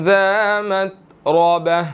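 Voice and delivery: slow melodic tajweed chant; Quran recitation. Shown as a demonstration. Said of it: "Quran recitation with tajweed". (धीमी तजवीद वाली तिलावत)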